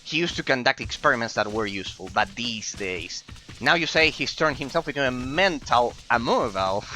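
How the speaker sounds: high, squeaky goblin grumbling. Acted. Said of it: "our goblin voice to read them".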